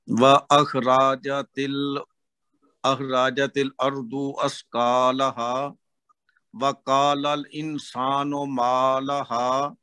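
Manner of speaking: measured recitation with held long vowels; Quran recitation. Real, not acted. Student reciting again for his teacher, careful recitation.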